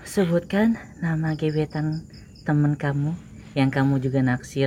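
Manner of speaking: slow, soft seductive purr; sexy voice. Pretend. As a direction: read it slow like a femme fatale. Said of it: "Pakai suara seksi".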